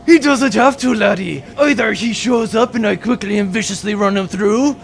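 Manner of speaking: gloating pirate captain. Acted. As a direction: savour the win.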